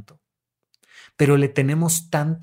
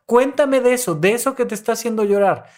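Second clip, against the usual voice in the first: urging therapist; 5 semitones higher than usual. Retold or imitated. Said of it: "y les digo".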